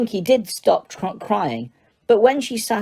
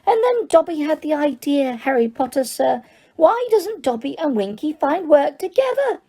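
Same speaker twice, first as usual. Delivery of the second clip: high, shrill elf voice raised over noise; shrill elf shout; 8 semitones higher than usual. Acted. Dobby talks over Winky's screeches, high and shrill. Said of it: "shouting shrilly over Winky's screeches".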